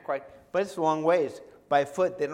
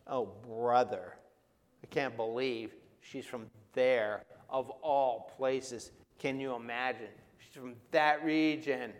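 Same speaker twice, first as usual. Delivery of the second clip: a mild mocking sigh of disgust at where she's from; disciples' scorn; 3 semitones lower than usual. Preacher voicing the disciples' scorn for the Canaanite woman, mildly disdainful.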